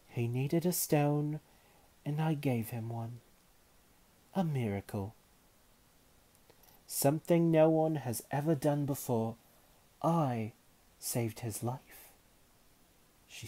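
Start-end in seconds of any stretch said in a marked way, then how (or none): 0.1-12.1 proud boast. A narrator's reading. Jessamine boasting.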